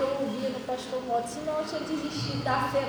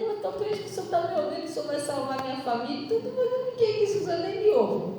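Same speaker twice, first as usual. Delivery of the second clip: inner voice; 5 semitones higher, faster than usual. Retold or imitated. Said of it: "na minha mente".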